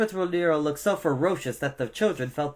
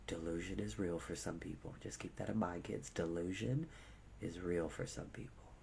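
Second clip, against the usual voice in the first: very soft, low confiding voice; hushed aside; 8 semitones lower, 16 dB quieter than usual. Real, not acted. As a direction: drop right down for a private warning. Hushed aside to the young listeners.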